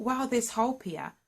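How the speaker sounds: bright retelling of new hope; excited. Retold or imitated. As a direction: relive the moment hope arrived. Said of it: "got me excited".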